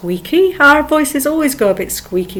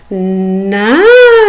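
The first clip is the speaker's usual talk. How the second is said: long drawn Lancashire nice with a rising swoop; 2 semitones lower, 4 dB louder than usual. Shown as a demonstration. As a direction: stretch it out Lancashire style. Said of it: "Try it".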